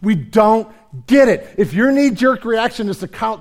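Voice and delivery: loud, high, passionate preaching; fiery preaching. Acted. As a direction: preach it at full force. Preaching at full force.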